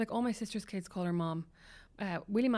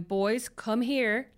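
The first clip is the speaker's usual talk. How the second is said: louder, very slow, drawn-out call; calling the boys in; 5 dB louder, much slower than usual. Retold or imitated. Father calling boys off the frozen pond, slow louder call. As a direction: call them off the ice, stretching each word. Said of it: "Brandon's going out and going".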